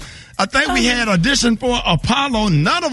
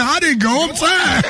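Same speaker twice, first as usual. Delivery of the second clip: mimicking Earthquake; 4 semitones higher than usual. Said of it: "He said".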